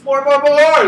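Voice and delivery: loud, high greedy chant; greedy demand. Acted. Kat demanding honey cakes, loud and greedy. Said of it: "is what he wants".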